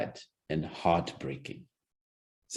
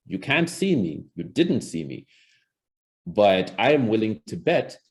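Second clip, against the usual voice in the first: ordinary talk, nothing marked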